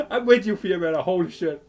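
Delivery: loud, eager hype with a laugh; real excitement. Real, not acted. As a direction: shout it out, thrilled by the scene. Streamer reacts to game scene.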